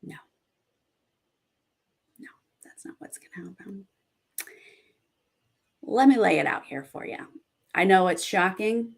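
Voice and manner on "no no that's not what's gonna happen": hushed fast whisper. Real, not acted. Whispering to viewers that their prediction is wrong. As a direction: lean in and breathe it fast, like a secret.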